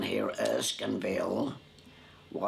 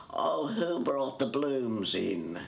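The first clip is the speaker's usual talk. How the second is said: superior tone; 4 semitones higher, slower than usual. Retold or imitated. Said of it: "in a very superior tone".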